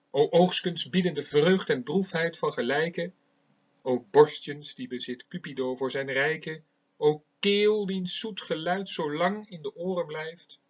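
measured poetic reading; poem recitation. Shown as a demonstration. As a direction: recite it like a lover's sonnet. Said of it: "Eén zo'n gedicht wil ik hier voorlezen".

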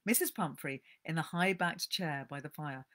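calm storyteller reading aloud; gentle book-reading voice; story narration. A narrator's reading. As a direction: read it like a cosy tale.

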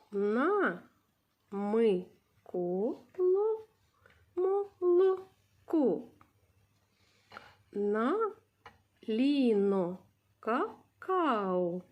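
slow syllable-by-syllable reading. Shown as a demonstration. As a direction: read it out one syllable at a time. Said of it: "teacher reads syllables for class".

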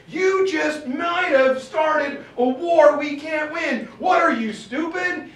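loud, high, slow furious shout; angry yelling. Retold or imitated. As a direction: bellow it down at him. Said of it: "guy just yelling at you".

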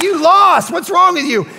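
loud mocking gloat in her face; loud, teasing gloat at a child; gloating taunt. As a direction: rub the loss in her face, loudly. Gloating over daughter's loss.

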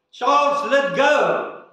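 a hint of God calling down; booming voice from heaven. God calls down to Charles, lightly booming. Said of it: "a booming voice coming out of heaven".

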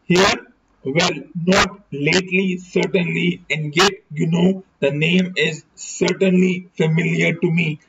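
measured audiobook reading; story narration. A narrator's reading. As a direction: read the novel aloud in deliberate, separated phrases. Reads a detective novel aloud.

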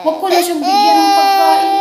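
high, loud, near-crying protest; half-sobbing about the angry dog; tearful complaint. Real, not acted. Complaining to viewers her sick dog got angry, near tears. Upset dog refused food, voice cries.

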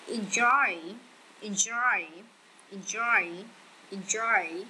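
enJOY, weight on the second syllable; stress on second syllable. Shown as a demonstration. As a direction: lean into JOY each time in Enjoy. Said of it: "nhấn âm hai". (nhấn âm hai của Enjoy: enJOY)

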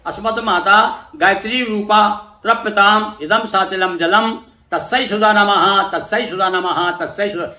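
mantra recitation. Shown as a demonstration. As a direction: intone it like a priest leading the offering. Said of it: "उसी प्रकार से लीजिए".

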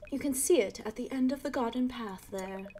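a hint of a proper British neighbor; posh British. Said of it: "like, a posh British voice".

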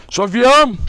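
high, loud call to a pet; affectionate calling out. Real, not acted. Owner greeting the dog Sofya, high loud call.

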